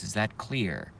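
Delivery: very calm voice. Shown as a demonstration. Streamer repeating the question to trolls, now calm and soft. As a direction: drop the voice down to calm. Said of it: "In a very calm voice".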